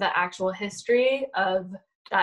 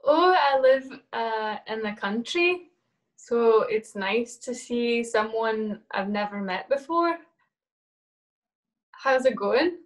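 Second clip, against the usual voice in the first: put-on Scottish accent; 2 semitones higher than usual. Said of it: "You're doing good in the Scottish accent".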